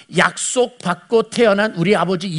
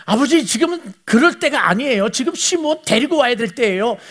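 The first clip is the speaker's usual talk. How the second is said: higher, mildly impatient son urging his father; annoyed; 6 semitones higher than usual. Retold or imitated. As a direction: press the father with light irritation. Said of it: "약간 짜증나기 때문에".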